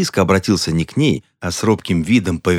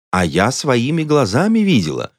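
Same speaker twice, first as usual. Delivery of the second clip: proud; 7 semitones higher than usual. A narrator's reading. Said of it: "гордо заявила мисс Изи".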